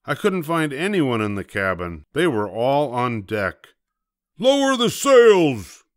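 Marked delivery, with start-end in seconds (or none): 4.4-5.8 high, slow, loud order; drawn-out urgent pirate command; captain's shout. A narrator's reading. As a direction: shout over the storm. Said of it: "Braidbeard shouted".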